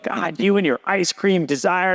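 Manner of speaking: mildly mock-upset wife's complaint. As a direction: imitate a fed-up wife, slowly. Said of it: "she's so upset".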